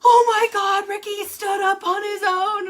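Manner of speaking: high, loud thrilled report; excited nurse. Retold or imitated. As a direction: nurse bursting with good news. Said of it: "he was like".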